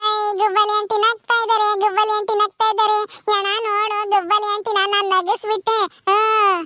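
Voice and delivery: put-on high kid voice, triumphant; gleeful child. Child boasts of making aunty laugh, gleeful. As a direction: announce it like a proud little child.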